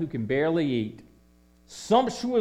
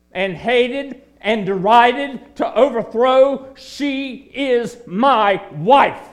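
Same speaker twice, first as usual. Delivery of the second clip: Lord's proclamation; 4 semitones higher, 7 dB louder, slower than usual. Acted. Jesus proclaims over the church.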